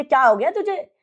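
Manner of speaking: mother alarmed, asking fast; startled mother. Retold or imitated. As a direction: mom asking what's wrong, startled. Mother startled by daughter's stare.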